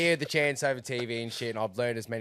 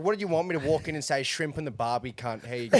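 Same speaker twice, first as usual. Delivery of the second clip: hammed-up, higher Aussie greeting; exaggerated Aussie accent; 5 semitones higher, 4 dB louder than usual. Traveller mocking what shopkeepers expect, in a hammed-up Aussie accent. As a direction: lay on the Australian accent in mock protest. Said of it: "you would have fucking known I'm Aussie".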